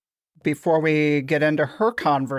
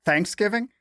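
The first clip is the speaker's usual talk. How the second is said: THANKS in "Thanksgiving" pitched high, questioning; mimicked stress; 5 semitones higher than usual. Co-host checking how the other says the holiday, mimicked stress on THANKS. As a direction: hit the first syllable, THANKS-giving, as a query. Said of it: "emphasis on the wrong syllable".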